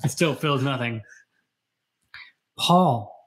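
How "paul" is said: whispered name. A narrator's reading. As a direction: breathe the name in an urgent whisper. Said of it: "Jessica says".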